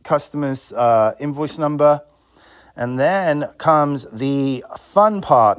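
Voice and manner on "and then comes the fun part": slow, sarcastic relish. Real, not acted. Vlogger on the tedious job of old tapes, sarcastic. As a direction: draw it out with dry sarcasm. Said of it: "I say that very sarcastically".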